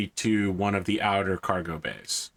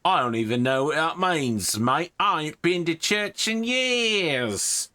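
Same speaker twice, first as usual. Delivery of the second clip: cocky guard, higher, slowing at the end; 7 semitones higher, slower than usual. Acted. Guard dismissing the priest, rough and higher. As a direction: shrug it off like a rough soldier.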